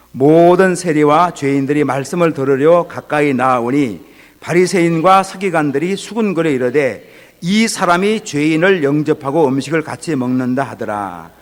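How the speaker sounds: slow, solemn Bible reading; scripture reading. Acted. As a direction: read the verses slowly and weightily. Reads scripture aloud. (느리고 엄숙한 성경 봉독)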